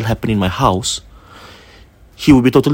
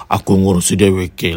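a slightly lower, mock baritone spirit voice; imitating a baritone man's voice; 3 semitones lower than usual. Retelling the spirit speaking through the husband, lightly lower baritone. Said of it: "like, baritone".

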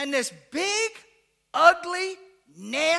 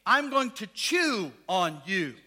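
dog voice; 3 semitones lower, slower than usual. Retold or imitated. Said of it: "He was saying".

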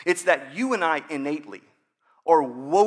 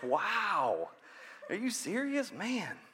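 sarcastic God; 3 semitones lower, 11 dB quieter than usual. Retold or imitated. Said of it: "God's like".

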